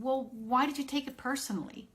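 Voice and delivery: mock dismissive reply to an angry friend; pushing back. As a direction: brush off their anger. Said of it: "my energy meeting yours would create friction".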